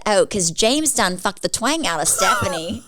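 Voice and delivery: imitating a sister's country twang, slow; lightly mimicked Southern twang; thick country accent. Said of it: "she has a very thick accent still".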